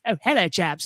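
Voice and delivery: mock posh British accent. Shown as a demonstration. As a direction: put on very posh British English. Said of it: "speak very posh".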